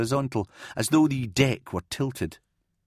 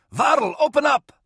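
loud, high urgent shout; yell; 5 dB louder than usual. A narrator's reading. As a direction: yell through a closed door. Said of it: "he yelled".

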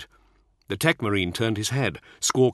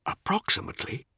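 doubtful; 11 semitones higher, 4 dB quieter than usual. Acted. Doubtful whispered echo.

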